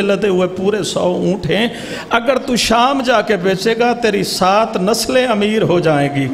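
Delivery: steady preacher's narration with voiced figures; majlis storytelling. A zakir narrating the Imam's sandal story, measured preaching. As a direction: tell the tale to the mourners.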